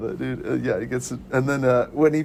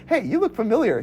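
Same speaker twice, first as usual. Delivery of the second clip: imitating Ed; 8 semitones higher than usual. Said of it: "he's like".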